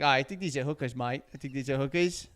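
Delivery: light Aussie twang, retold; a hint of an Aussie mate; half-hearted Australian accent; mild Australian accent. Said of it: "the Australian guy busted in".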